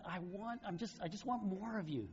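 high, gushing puppy love. Retold or imitated. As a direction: squeal it like a kid smitten with her dog. Girls gushing over the dog.

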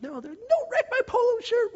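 very high mock wail; bawling kid. Crying kids plead with captors, high wailing impression. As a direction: squeal it like a panicking child. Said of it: "They're bawling their faces off".

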